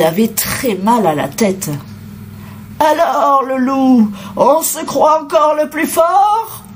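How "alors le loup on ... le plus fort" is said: higher-pitched angry mother goat; scolding growl. A narrator's reading. Mother goat challenging the captured wolf, scolding. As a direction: scold him sharply, pitched up. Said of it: "gronda la maman chèvre".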